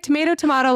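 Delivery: "Tomato, tomato" as to-MAY-to, to-MAH-to; two rival pronunciations. Retold or imitated. Teacher shrugs off kindergartner, "Tomato, tomato" as to-MAY-to, to-MAH-to. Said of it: "That's how you say it".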